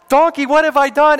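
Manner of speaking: high, loud, hammed-up squawk of a prophet; comic Balaam voice. Preacher voices Balaam talking back to his donkey, high and loud. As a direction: play Balaam as a silly, indignant man.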